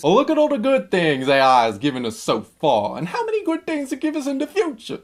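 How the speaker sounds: gushing optimist, pitch leaping high at the end; naive optimist voice. Acted. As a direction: put on a silly, over-eager believer's voice. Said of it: "with that voice".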